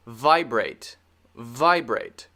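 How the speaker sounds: "vibrate" with a clearly voiced V; clear model V. Shown as a demonstration. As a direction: say "vibrate" carefully, lip lightly on the teeth for V. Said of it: "go over a couple of examples".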